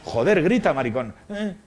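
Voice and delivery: mock furious director; retold yell. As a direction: bark the order to scream. Director yelling at actor.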